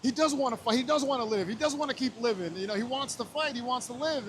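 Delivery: blurting out hopeful news; excited. Retold or imitated. Excitedly telling wife the news.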